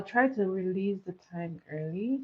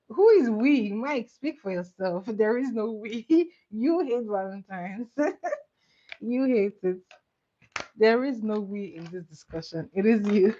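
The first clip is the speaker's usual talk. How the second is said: playful teasing; 3 semitones higher, 4 dB louder than usual. Real, not acted. Teasing reply to chat viewer.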